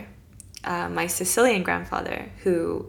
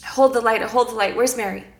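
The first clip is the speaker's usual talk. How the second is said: defiant call; 4 semitones higher, 5 dB louder, faster than usual. Retold or imitated. Defiant call against demons.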